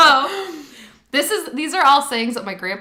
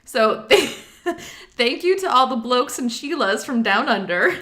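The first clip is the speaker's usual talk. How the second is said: Midwestern accent. Shown as a demonstration. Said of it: "in my best Midwestern normal person accent".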